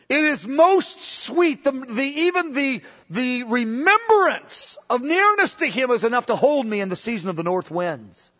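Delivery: rising devotional fervor; fervent testimony. Retold or imitated. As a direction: let the sweetness swell up. Preacher voicing the bride's testimony.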